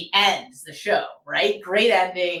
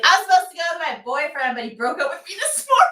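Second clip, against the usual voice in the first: fast, much higher put-on voice, laughing through; mock woman's voice; 11 semitones higher, 4 dB louder, much faster than usual. Retelling the woman's breakup story to friend, fast high mimicry. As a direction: rattle it off like a tipsy woman.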